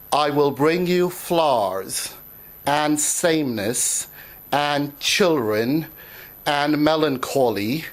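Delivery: measured poetry reading with deliberate pauses; poem recital. Acted. Poet reading a short poem to an audience, measured recital. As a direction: recite it line by line, pausing between the items.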